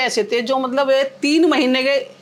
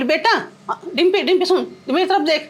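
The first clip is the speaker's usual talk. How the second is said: put-on higher, urgent call to a child; mother pleading with toddler, voice raised and pitched up; calling to lost son; 5 semitones higher, faster than usual. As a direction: coax the little boy to look at her.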